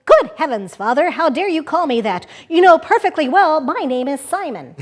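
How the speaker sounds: lightly voiced indignant little rabbit; a touch of outraged propriety; exclaiming prim rabbit. Rabbit scolding his father in the story, mildly indignant exclamation. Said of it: "The little rabbit was shocked. He exclaimed".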